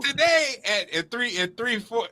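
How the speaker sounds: high surprised yelp then trailing off; disbelief. Retold or imitated. Parent retelling shock at daughter's test time, surprised. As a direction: react in shock to the schedule clash. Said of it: "I was like".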